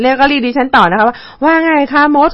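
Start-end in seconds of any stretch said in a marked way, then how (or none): 1.3-2.3 slow, slurred, lightly imitated; groggy slurred voice. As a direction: slur it like half asleep. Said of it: "ก็เสียงอ้อแอเต็มที".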